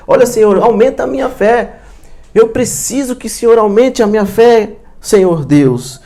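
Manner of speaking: earnest plea. Acted. Voices disciples' prayer for faith.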